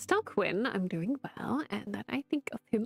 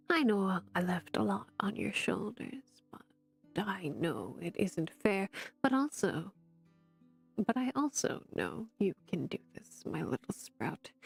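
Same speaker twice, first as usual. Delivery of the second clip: tender. Acted. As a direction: ease it gently to her, almost a whisper. Aunt's tender letter lines.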